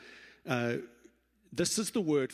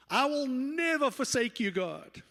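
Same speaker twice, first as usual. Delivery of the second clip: bold vow; 10 semitones higher, 3 dB louder than usual. Acted. Peter's boastful vow, acted.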